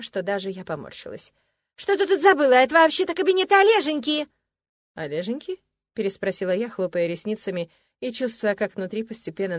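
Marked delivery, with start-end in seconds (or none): 1.8-2.5 высоко и громко, с напором; атакуй незваную гостью; визгливый наезд. Acted. Любовница нападает на героиню. 2.5-4.3 высоко и громко, «Олеженьки» протянуто ласково-требовательно; громко заяви права на Олега; визгливый наезд. Acted. Любовница нападает на героиню. 4.9-5.6 «Олеженьки» ровным голосом с подъёмом в конце; переспроси, не веря ушам; недоуменное переспрашивание. Acted.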